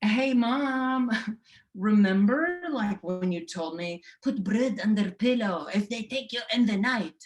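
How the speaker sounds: playful teasing reminder to mom; mock innocent son teasing mom; talking to mom. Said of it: "And I'm like".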